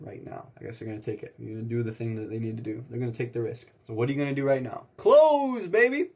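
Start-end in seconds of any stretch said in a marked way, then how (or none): 5.0-6.1 triumphant yell. Real, not acted. Celebrating closing the sale.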